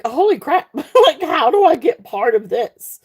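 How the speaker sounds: high, delighted mock exclamation with a laugh; giddy amazement at a new community; excited. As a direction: gush like you just found the best club. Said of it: "And it's like".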